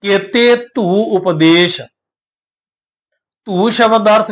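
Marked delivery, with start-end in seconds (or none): 0.0-1.8 slow, measured recitation of the verse; scripture recitation. Shown as a demonstration. Teacher reciting Gurbani to the sangat, slow and measured. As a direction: intone the line with care.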